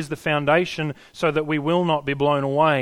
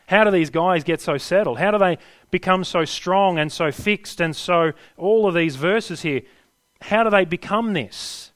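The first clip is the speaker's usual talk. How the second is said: rising, louder passionate plea; fervent preaching; 5 semitones higher, 5 dB louder than usual. Real, not acted. Preacher pressing the congregation, fervent and loud. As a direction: build the wonder, pressing harder.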